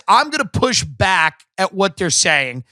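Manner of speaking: ordinary talk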